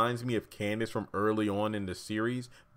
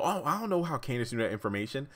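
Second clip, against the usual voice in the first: lightly imitated innocent act, higher and quicker; feigned innocence; 4 semitones higher, faster than usual. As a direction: play mildly clueless, quick and a bit higher. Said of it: "he's pretending like, you know".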